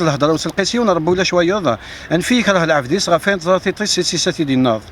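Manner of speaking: brisk, rhythmic verse with little pause; poem recitation. Acted. Poet reciting his poem on a singer to an interviewer, rhythmic recitation. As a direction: recite it in quick, steadily measured lines.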